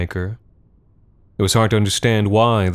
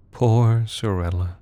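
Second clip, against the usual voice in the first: tender murmur; 2 semitones higher, slower than usual. Acted. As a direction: coo it into her hair. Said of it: "Kaizen murmured into her scalp".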